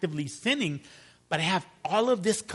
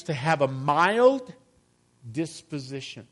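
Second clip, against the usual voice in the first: "mild" drawn out and rising, then a pause; stress on mild. Shown as a demonstration. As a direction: hang on "mild" with a lifted end. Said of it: "The emphasis is on the word mild".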